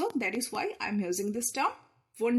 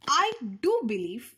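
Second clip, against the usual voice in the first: "do" pushed up and louder; emphatic "do"; stress on do; 3 dB louder than usual. Shown as a demonstration. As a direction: lean hard on "do". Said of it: "here I am giving stress".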